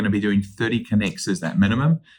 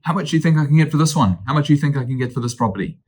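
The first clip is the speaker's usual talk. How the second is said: eager client; 5 semitones higher, faster than usual. Retold or imitated. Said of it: "So they say".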